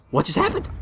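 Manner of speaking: high-pitched puzzled question; mock bewilderment. Retold bewilderment after first capsize.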